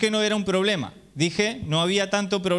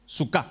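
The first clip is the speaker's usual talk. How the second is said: sucá accented on the final A, pitched lower; stress on last syllable; 5 semitones lower than usual. Shown as a demonstration. Comparing it with Sucot for congregants, end-stressed word. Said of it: "El acento va al final de la palabra".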